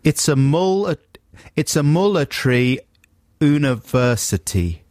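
sounded-out attempt at a South African accent; tentative, laboured South African accent; phonetic South African accent. Shown as a demonstration. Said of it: "he should just sound perfectly South African".

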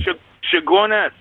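put-on broad stereotypical Caribbean accent; hammed-up Trinidadian lilt. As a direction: fake a native Trinidadian accent. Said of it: "as kind of Jamaican stroke Trinidadian accents go".

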